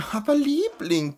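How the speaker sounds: high, loud affected protest. Acted. A pampered lady protesting loudly to her friend, showy objection. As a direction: protest loudly, enjoying the attention. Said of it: "protestierte Lazaralen lautstark".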